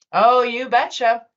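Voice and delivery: slow, drawn-out Minnesota "you betcha"; Minnesotan accent. Acted. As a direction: lean into a Fargo-style Minnesota accent. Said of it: "in a voice of a Minnesotan".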